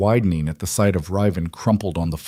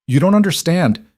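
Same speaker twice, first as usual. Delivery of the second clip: desperate shout; 9 semitones higher, 5 dB louder than usual. A narrator's reading. Cursed man pleads in panic.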